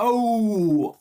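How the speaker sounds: high, loud, drawn-out mock gay Italian "oh"; gay Italian accent. Gay Italian killer taking off the mask, hammed-up Italian accent. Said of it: "how to do a gay Italian accent".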